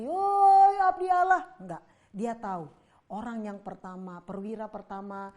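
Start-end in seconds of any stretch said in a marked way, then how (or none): 0.0-1.4 loud, higher yell of Woi abdi Allah; the way the first officers shouted; rude shout. Shown as a demonstration. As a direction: holler it disrespectfully. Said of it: "bukan teriak-teriak kayak tadi".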